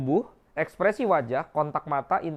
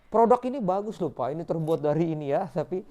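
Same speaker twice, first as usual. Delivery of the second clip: pleading unsure pitch. Shown as a demonstration. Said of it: "Tuh, intonasi suara".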